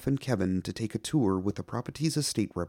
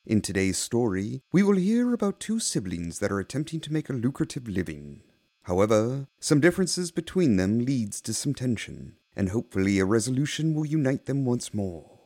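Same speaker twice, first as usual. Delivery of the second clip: theatrical horror host intro. Acted. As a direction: welcome the lunatics with relish.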